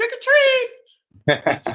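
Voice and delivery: put-on high, slow, squeaky little kid voice.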